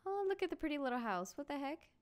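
high-pitched cooing excitement; thrilled, lifted voice; delighted. Real, not acted. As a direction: gush over something adorable. Delighted at first sight of house.

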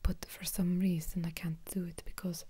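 heavy-handed Russian accent attempt. Shown as a demonstration. Vlogger recalling Olga and her Russian ways, shaky-command Russian accent. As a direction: put on a Russian accent that keeps slipping. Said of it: "we've got my Russian accent".

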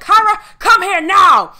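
loud, high, drawn-out holler; imitated yelled summons. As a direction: imitate the boss bellowing for you urgently. Angela summons her from the back, yelling.

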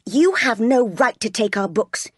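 lightly voiced haughty boy; bullying young master. John scolding Jane over the books, haughty.

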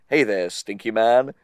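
a hint of a low suave voice; lightly voiced smooth greeting; smooth sexy Gary. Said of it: "smooth and sexy".

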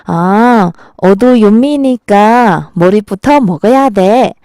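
slow, lightly voiced considerate boyfriend; man answering Seoul woman. Shown as a demonstration. Man answers Seoul girlfriend about fish-bread, lightly voiced boyfriend. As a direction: lightly play a man patiently explaining, drawn out. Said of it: "서울 여자 말을 듣고 또 이렇게".

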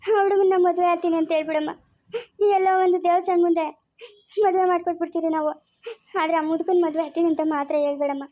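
tearful begging; crying plea. Acted. Mother begging daughter to marry the boy, crying. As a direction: plead through tears for her to choose the boy.

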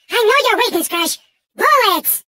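unhinged, melodramatic game villain; theatrical villain. Acted. Mad villain Engine pleading with Crash for plutonium, melodramatic. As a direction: play a volatile mad villain, swinging between scheming and wailing. Same character voice.

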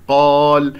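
full, heavy qaf in قال with a long alif. Shown as a demonstration. Teacher showing the heavy qaf in قال, emphatic and open. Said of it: "القاف مفخمة مرتبة أولى مفتوحة".

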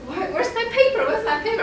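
high, frantic mock search; replaying her own panic; anxious student looking for her paper, high and urgent. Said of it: "I was so anxious".

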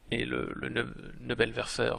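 Nebelwerfer said slowly in a German accent; self-mocking German accent on Nebelwerfer. Shown as a demonstration. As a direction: sound out Nebelwerfer the German way, drawn out. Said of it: "vous m'excuserez pour mon accent allemand".

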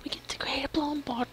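excited little whisper. Real, not acted. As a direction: whisper it to yourself. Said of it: "I'm so weird when I'm excited".

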